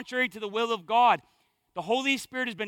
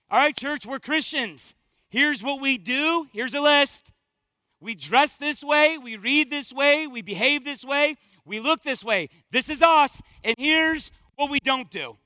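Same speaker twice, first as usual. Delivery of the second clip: mock rule-list preacher; 2 semitones higher than usual. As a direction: lightly parody a legalistic pastor. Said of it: "That would be the easy way".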